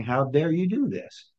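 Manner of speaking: mildly acted indignation; mock outrage, pitch lifting a little; indignant challenge. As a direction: play an affronted official challenging an outsider. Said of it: "glaring at him saying".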